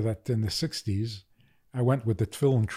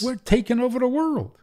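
excited; 12 semitones higher, 3 dB louder than usual. Retold or imitated. Voicing the lively movement.

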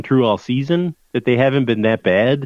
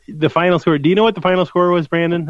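mock quiz host; 8 semitones higher than usual. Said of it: "this is a little quiz here".

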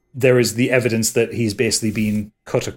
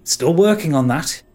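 a bit higher, defensive reply; sheepish villain; 6 semitones higher than usual. Acted. Dane answering the woman, a touch defensive. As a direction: brush her off lightly. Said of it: "he says back to her".

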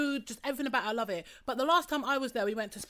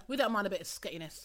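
chewing while talking; 4 semitones lower, 5 dB quieter than usual. Real, not acted. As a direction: mouth full of Smarties. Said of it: "Excuse the munching".

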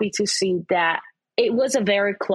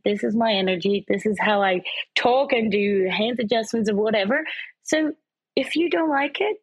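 defiant retort. Retold or imitated. Answering online critics, a defiant mock retort. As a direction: tell the haters off, lightly performed. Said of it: "and I'm like".

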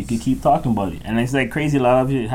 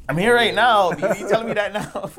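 surprised; 7 semitones higher, 5 dB louder than usual. Retold or imitated. Retold shock at late warning.

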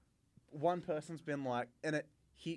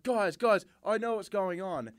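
higher and louder, smug and pleased with himself; smug celebrity; 7 semitones higher, 6 dB louder than usual. Retold or imitated. Mocking the Stranger Things kid barging into the prank, smug. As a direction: play the star strolling in expecting everyone to know him. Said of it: "this smug look on his face".

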